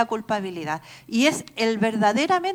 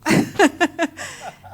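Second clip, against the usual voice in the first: amused laugh; 4 semitones higher than usual. Real, not acted. Preacher laughing at her own indignation before the congregation, real amused chuckle. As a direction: break into a real, rapid laugh.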